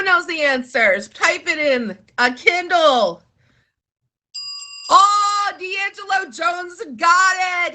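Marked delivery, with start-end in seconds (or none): 4.9-7.7 excited shout-out. Real, not acted. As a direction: cheer the viewer who got it. Viewer answers correctly.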